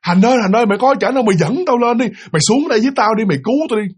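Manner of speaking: mock panicked shout, pitched high; imitating a scared man calling out; panicked cry for help. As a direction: retell a frantic plea to be rescued. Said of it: "ổng mới hoảng loạn, ổng mới la hét lên".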